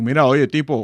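lightly voiced Cuban Spanish; a brief, punchy Cuban impression; Cuban accent. Shown as a demonstration. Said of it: "they don't need a microphone".

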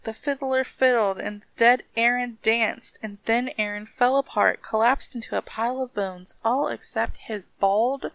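lilting storybook reading; rhythmic story narration. A narrator's reading. Reading how the dead man danced, rhythmic story narration. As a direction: let the list of rattling parts roll along.

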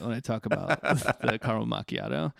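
creaky vocal fry on the drink name. Shown as a demonstration. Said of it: "I'm trying to use a lot of vocal fry".

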